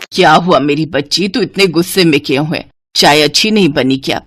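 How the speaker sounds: calm the upset daughter; tender mother. Acted. Mother soothing her daughter. (प्यार से पुचकारती माँ)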